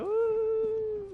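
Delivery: high, drawn-out hooting "woo"; long, thin creature hoot; imitated creature call. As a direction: imitate a giant beast calling out. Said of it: "and they're like".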